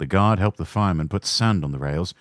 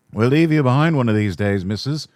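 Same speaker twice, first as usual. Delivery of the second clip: laughing; 5 semitones higher, 5 dB louder than usual. Acted. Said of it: "laughs our driver".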